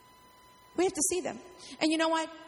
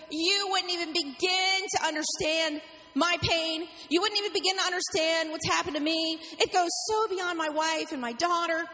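slow, higher, pained angry protest; angry retort; 4 semitones higher than usual. Retold or imitated. James jabbing a finger at the pastor, angry and slow. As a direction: press each word in slow hurt anger. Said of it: "He got angry again".

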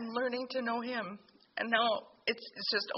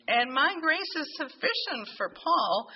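higher, louder, slow and firm divine reassurance; voice of the Lord; 5 semitones higher, 5 dB louder than usual. Retold or imitated. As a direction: insist on it like a loving father. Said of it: "the Lord just said to me".

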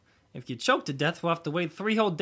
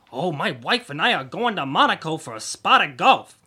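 loud, hammed-up upper-crust impression; mocking snob voice; 6 dB louder than usual. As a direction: mimic a pretentious golfing type. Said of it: "speaking with that voice that says".

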